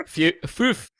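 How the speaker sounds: high, tentative "foof" with oo; five with a U. Retold or imitated. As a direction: try "foof", oo replacing the i. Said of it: "pronounced with a U".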